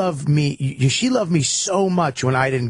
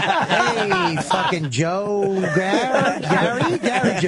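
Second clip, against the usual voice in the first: higher, laughing stab at a half-remembered name; fumbling greeting; 4 semitones higher, much slower than usual. Retold or imitated. Comedian fumbling a fan's name, mock cheerful. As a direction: fish for the name with forced cheer.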